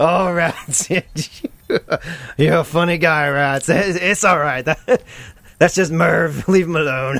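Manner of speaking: slow, reassuring, brushing it aside with a laugh. Voicing Kenneth, who sees a coworker held at gunpoint: GM voicing Kenneth laughing it off. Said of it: "he's like".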